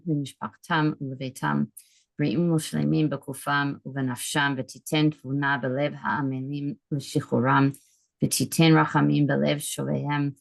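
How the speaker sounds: brisk, even Hebrew prayer reading; prayer recitation. Real, not acted. Host saying the prayer for the hostages, brisk even recitation. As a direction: recite steadily in short phrases, with little rise or fall.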